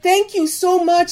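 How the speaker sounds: a touch of tearful thanks; retold tearful thanks. The neighbor thanking Eva for the bread, mildly tearful. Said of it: "she was sobbing and thanking me".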